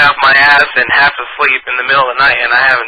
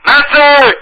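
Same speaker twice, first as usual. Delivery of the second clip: high, loud call across a room; 6 dB louder than usual. Acted. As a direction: shout the name to get attention. Calling out on phone.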